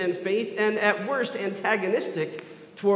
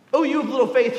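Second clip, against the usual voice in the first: proclaiming; 4 semitones higher, 5 dB louder, faster than usual. Acted. Repeated call in sermon.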